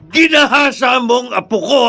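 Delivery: furious shout. Acted. Grandfather confronts the rapist.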